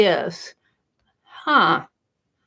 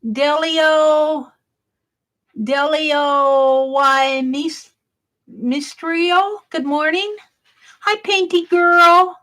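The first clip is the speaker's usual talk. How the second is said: bright greeting; 6 semitones higher, slower than usual. Real, not acted. Greeting live stream viewers.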